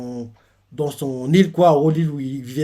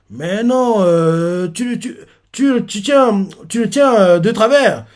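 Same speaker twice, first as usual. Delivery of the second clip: high, loud scolding; scolding villagers; 7 semitones higher, 5 dB louder, slower than usual. Retold or imitated. Villagers scold Kuma for holding the baby crooked, loudly. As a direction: tell him off for holding the baby wrong.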